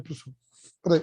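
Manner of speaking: turned away from the mic; distant, off-mic; from another room. Real, not acted. Answering someone at the door.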